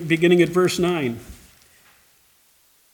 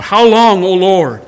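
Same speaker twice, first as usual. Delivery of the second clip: anguished cry; 5 dB louder, slower than usual. Acted. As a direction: shout it up to heaven, begging. They're crying out.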